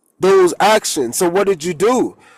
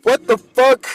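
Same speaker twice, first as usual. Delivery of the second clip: annoyed outburst; 6 semitones higher than usual. Real, not acted. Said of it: "It just pissed me off".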